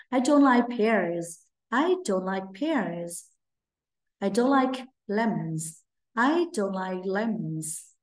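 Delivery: I don't like pears said very slowly; teacher modeling slowly; slow model sentence. Shown as a demonstration. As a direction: draw out each word of I don't like. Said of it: "chúng mình sẽ nói".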